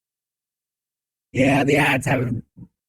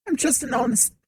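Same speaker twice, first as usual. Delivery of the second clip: higher, sly peddler voice; peddler's voice. Acted. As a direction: play the shifty peddler. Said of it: "that's him speaking".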